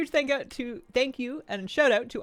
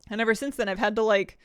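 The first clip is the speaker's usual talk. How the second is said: winded, gasping between words; out of breath; 4 dB louder than usual. Real, not acted. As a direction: speak short of breath. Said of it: "sorry, I'm out of breath".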